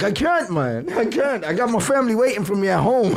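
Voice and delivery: high-pitched mock pleading; drunken pleading. Fallen drunk protesting to friend, mock pleading. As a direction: act out a helpless protest, voice up.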